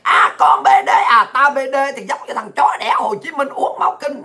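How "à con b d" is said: mimicking a taunting cry; hecklers' mock yelling. Ranter mimics critics name-calling, mock yelling. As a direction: throw the insult out as a mock yell. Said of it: "tụi bay la làng hoài".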